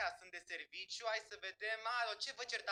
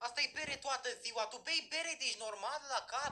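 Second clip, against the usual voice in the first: indignant accusation, raised pitch; mild shouting; 3 semitones higher than usual. Acted. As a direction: call out a classmate, voice pitched up a little. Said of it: "vorbește mai încet, nu mai țipa așa".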